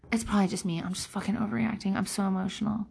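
self-doubting inner voice. Retold or imitated. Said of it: "you think".

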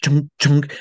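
short, punchy stamping noise; imitated stamp thunk. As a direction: mimic a stamp hitting twice. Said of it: "I took the bunny stamp. I went".

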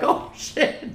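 "Oh, shit" whispered under breath. Retold or imitated. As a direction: whisper it in alarm. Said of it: "I'm like".

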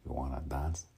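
lightly attempted Tony Montana Cuban accent; tentative Cuban-accented pickup line. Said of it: "still gotta work on the accent".

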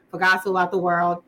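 low-pitched American accent with coloured r. Shown as a demonstration. Practising accents alone on the road, American accent. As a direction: read it in a drawled American accent. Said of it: "let's do it in American".

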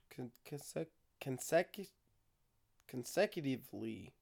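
stumbling over the word; stoned. Real, not acted. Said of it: "that is a really tough word".

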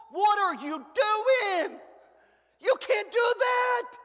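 from protest to a slow, high indignant shout; hammed-up outrage ending in a yell; mock outrage, building to a shout. Voices a shocked objector.

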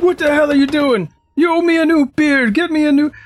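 loud, high, furious shout; angry half-orc. Acted. Half-orc demanding a new beer, loud angry shout. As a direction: bellow at the table like a bully.

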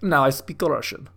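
badly faked Russian accent; failed Russian accent. Shown as a demonstration. Comic pretending he can switch languages, failed Russian accent. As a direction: attempt Russian and miss the accent. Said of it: "That wasn't even a Russian accent".

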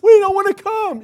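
high, loud whining protest; whiny kids shout. Retold or imitated. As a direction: yell back like a stubborn kid. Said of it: "they're like".

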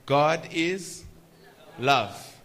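slow, loud "God is love", stress on love; emphatic scripture quote. Shown as a demonstration. Preacher quoting One John to the congregation: loud emphatic stress. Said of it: "it says".

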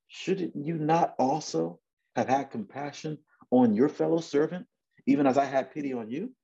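high-pitched reproachful question. Acted. Lord questioning his unforgiving servant, reproachful.

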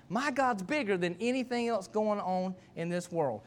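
ordinary talk

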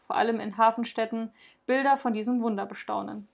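calm, even storytelling read; story narration. A narrator's reading. Podcast host reading a Saint Nicholas legend, narration. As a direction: read the legend to listeners, gently paced. Reads Nikolaus story aloud.

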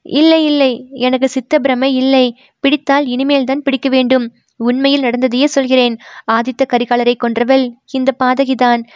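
put-on a guilt-stricken girl pouring out her confession; distressed young woman. Manimekalai insists she killed him.

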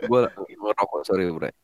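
talking while smoking; words round a cigarette; cigarette in mouth. Real, not acted. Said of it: "Napasnya anjing banget sih". (bicara sambil merokok)

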